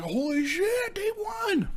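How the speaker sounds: disbelieving scream at the winners; shocked shout. Retold or imitated. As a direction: yell it like you can't believe it. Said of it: "I was like".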